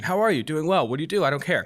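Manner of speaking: mock small talk, pitched a little up; mindless small talk. Dater mocking dating-app chat, mindless small talk. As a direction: rattle off empty pleasantries, mildly mocking. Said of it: "mindless conversation".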